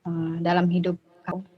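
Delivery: choppy, glitchy connection audio; words breaking up like a robot; half robot voice. Real, not acted. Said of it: "tadi suaranya seperti robot".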